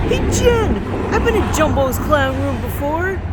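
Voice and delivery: high, loud mock Boston guy; excited, high-pitched Boston friend impression; Bostonian accent. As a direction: tell it loudly in a hammed-up Boston accent. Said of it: "more of a Bostonian accent".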